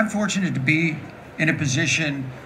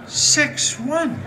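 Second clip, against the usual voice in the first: laughing; 9 semitones higher than usual. Real, not acted. Laughing at the new height.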